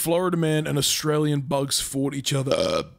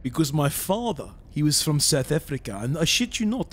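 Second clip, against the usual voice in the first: South African accent. Shown as a demonstration. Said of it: "Can do a South African voice as well".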